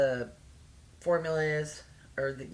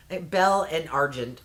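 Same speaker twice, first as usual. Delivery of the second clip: American accent. Shown as a demonstration. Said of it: "say it with an American accent".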